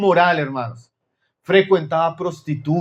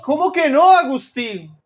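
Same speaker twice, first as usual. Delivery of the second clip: higher-pitched mock disbelief; incredulous; 5 semitones higher than usual. Woman answers Agustín who denies knowing her, incredulous. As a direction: act out a woman taken aback at not being recognised.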